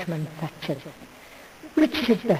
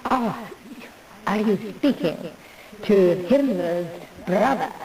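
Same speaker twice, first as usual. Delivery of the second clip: put-on Welsh accent. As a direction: lilt it like a Welsh film actor. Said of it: "in their best Welsh accent say".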